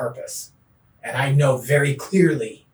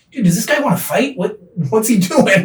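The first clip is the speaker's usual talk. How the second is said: alarmed inner voice; 8 semitones higher, 8 dB louder than usual. Retold or imitated. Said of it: "I'm like".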